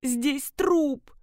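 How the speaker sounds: high pleading calls from below; shouting. Acted. Trapped woman shouts up to her rescuer, pleading. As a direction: beg to be pulled out. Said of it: "закричала".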